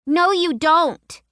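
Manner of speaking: put-on high, slow, emphatic girl; a young girl firmly denying it; little girl voice. A narrator's reading. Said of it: "She shook her head emphatically".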